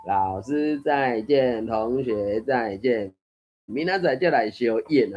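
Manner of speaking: slow recited classroom goodbye; rote schoolchildren's farewell. Acted. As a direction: draw out each word like a pupils' drill. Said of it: "迄啥练喙皮". (親像學生囡仔練喙皮，慢慢仔唸)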